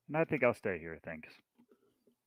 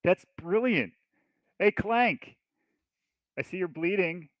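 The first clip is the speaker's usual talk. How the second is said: higher, louder taunt; gleeful in-character teasing, pitched up; mocking delight; 7 semitones higher, 6 dB louder than usual. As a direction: crow at the prisoner's nickname. Player taunts the prisoner in character.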